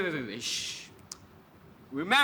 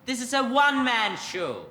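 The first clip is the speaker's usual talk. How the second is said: funny voice; 6 semitones higher than usual. Acted. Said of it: "Why are you talking funny".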